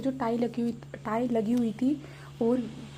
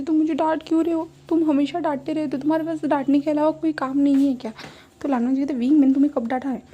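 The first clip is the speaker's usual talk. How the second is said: pitched-up grievance at Wang; whiny complaint; 2 semitones higher, 5 dB louder than usual. Retold or imitated. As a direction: whine like a scolded drunk kid. Drunk Wing complaining about scolding.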